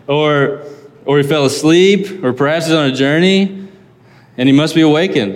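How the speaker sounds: mocking taunt. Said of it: "He's mocking them".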